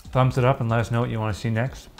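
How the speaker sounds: talking with a mouthful of food; chewing while speaking, mouth full. Real, not acted. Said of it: "Sorry for talking with my mouth open".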